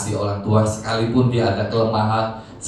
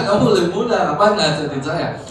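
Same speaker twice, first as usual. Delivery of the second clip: imitated indignant father, higher and louder; mock scolding with raised voice; retold growing anger; 7 semitones higher, 5 dB louder than usual. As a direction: act out a father scolding his younger child. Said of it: "Dia makin marah gitu ya".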